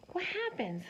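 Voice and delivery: hushed stage whisper to the class; playful whisper. Acted. Teacher whispering a teaser question to the kids.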